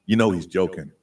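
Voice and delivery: very low electronic bass narration; deep bass voice changer. Pretend. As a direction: tell the tale through a deep voice changer. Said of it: "a little more deep bass".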